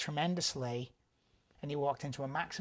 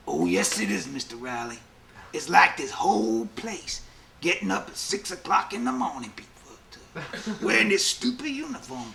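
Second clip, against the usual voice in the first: inmate voice; 5 dB louder than usual. Retold or imitated. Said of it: "He goes".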